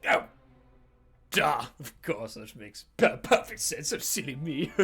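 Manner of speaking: lightly voiced silly fellow; Billingston. Ally answering the heroes about horses, lightly hammed-up sheepishness. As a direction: stumble through a sheepish realization. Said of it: "And he says".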